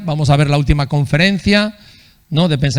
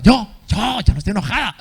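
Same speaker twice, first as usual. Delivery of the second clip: higher, stammering denial that she's angry; mock angry denial; 5 semitones higher than usual. Spouse denying her anger during a marriage quarrel, mock indignant. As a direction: play the spouse insisting she isn't angry, voice pinched up high. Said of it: "Y la otra persona".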